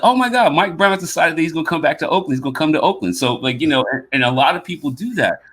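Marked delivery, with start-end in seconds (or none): 0.0-3.1 higher, exclaiming "oh my God"; excited retelling. Retold or imitated. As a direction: react as if just hearing big news. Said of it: "I was like".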